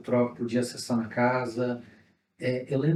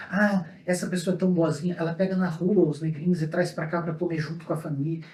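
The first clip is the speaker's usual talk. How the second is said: higher-pitched mock admiring family talk; imitated praise; 5 semitones higher than usual. Relatives praising someone who takes in poor children, imitated admiring tone. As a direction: quote the relatives' praise in a raised voice. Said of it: "uma alegoria de".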